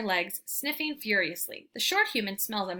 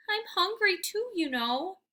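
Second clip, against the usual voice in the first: much higher, pleading whine; whining; 10 semitones higher than usual. Acted. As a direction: beg the table with sad eyes. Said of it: "I whine".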